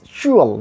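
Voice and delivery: CHUAL with a tense, full OO; wrong long oo. Shown as a demonstration. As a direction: overround the u in "chual". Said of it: "Not like this".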